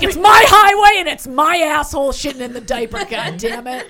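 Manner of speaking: shouting as an entitled jerk; entitled brat voice. Retold or imitated. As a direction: yell it like a spoiled brat. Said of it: "You're like".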